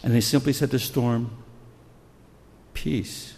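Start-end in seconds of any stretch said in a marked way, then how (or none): 2.7-3.3 soft, spaced-out hush; quiet, measured soothing; calming command. Retold or imitated. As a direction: settle a storm gently, with long pauses. Voices Jesus calming the storm.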